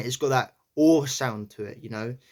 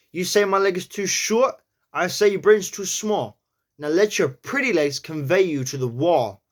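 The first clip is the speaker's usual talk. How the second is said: New York accent; 5 semitones higher, 3 dB louder than usual. Shown as a demonstration. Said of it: "let's try it again".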